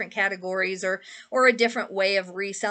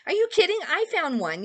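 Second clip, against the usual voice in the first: excited; 8 semitones higher than usual. Retold or imitated. Retorting she found one too.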